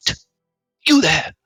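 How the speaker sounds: high-pitched, hushed plea for help; hushed stranger. Acted. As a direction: call out in a strained high stage whisper. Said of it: "It's a very hushed, um, quiet voice".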